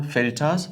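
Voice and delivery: फिल्टर्स as "fil-taaz"; silent R. Shown as a demonstration. Teacher repeating for learners, फिल्टर्स without R. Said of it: "आर नहीं पढ़ना".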